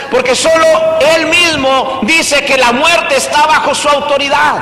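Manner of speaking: full-force preaching. Acted. Pastor proclaiming Jesus' authority to the congregation, forceful.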